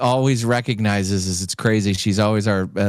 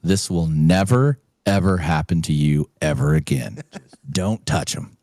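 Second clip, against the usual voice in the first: put-on grumpy old man; 3 semitones lower than usual. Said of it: "old grumpy dude in an old wrinkled suit".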